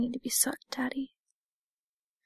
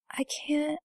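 breathy secret whisper; hushed, teasing whisper; seductive whisper; 3 semitones higher than usual. Acted. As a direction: whisper it like a naughty confession.

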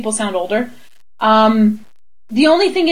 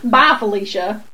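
put-on playful Southern-accented send-off; 2 semitones lower than usual. Echoing her friend's dismissal, Southern accent. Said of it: "all these accents I'm mastering".

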